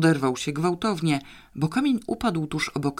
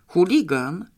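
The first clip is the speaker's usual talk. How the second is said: higher, firm verdict on a wrongdoer; pitched-up pronouncement; pronouncing judgement; 4 semitones higher, 4 dB louder than usual. A narrator's reading. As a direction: declare it like a verdict. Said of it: "zawyrokowała Janeczka".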